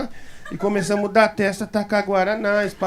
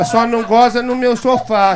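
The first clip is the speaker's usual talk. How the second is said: retold warning; 2 semitones higher, 6 dB louder than usual. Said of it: "Ele falava".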